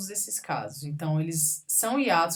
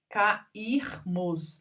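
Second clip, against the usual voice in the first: "Cairmos" as ca-ir-mos; syllable by syllable. Shown as a demonstration. Teacher showing i followed by R, syllable by syllable. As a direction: pause around "ir" in "Cairmos". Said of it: "tem R".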